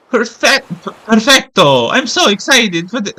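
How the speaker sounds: excited Spanish accent, badly faked; attempted Spanish accent. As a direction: try a Spanish accent that slips into Italian. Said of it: "Cannot do a Spanish accent".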